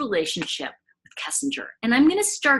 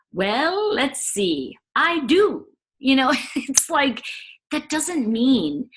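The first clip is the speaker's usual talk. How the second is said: sassy; 3 semitones higher, slower than usual. Real, not acted. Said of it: "defiant answer to critic".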